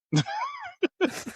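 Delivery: shrieking high burst of laughter; amused high cackle; high-pitched laugh. Real, not acted. Laughs after teasing about accents.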